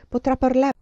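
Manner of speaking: a nun pushing her point hard; insistent nun. Acted. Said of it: "La suora insisteva".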